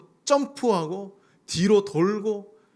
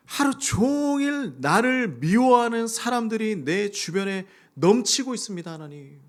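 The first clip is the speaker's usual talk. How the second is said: urgent prayer; 5 semitones higher than usual. Retold or imitated. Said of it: "바로 본론으로 들어가서".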